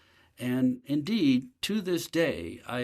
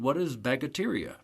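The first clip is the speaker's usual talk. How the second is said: put-on a lightly done, puzzled Nepalese accent. Nepalese workers ask the buyer about bacteria, mock Nepalese accent. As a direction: imitate a worker puzzled by the word. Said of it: "my poor takeoff on, uh, Nepalese accent".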